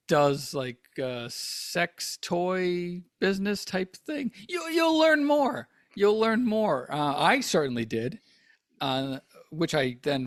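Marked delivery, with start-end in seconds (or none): 4.5-5.7 high, slow, knowing delivery; wise pronouncement. Pretend. Host sagely telling listeners they'll learn more. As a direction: intone it like ancient wisdom. Mock-wise repeat of a plug.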